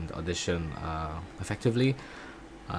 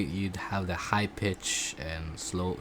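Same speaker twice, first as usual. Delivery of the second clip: slow diction; much slower than usual. Shown as a demonstration. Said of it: "slow diction".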